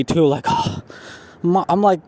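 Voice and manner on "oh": mock exasperated huff; imitated eye-roll huff. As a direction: huff like an annoyed waiter rolling his eyes. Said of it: "rolled his eyes at me".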